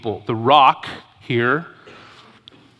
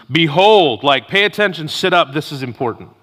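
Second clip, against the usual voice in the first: emphatic, raised call to sit up and listen; attention-grabbing; 3 semitones higher, 5 dB louder than usual. Acted. Preacher voicing Moses' call to pay attention, attention-grabbing. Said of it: "This is his grab your attention".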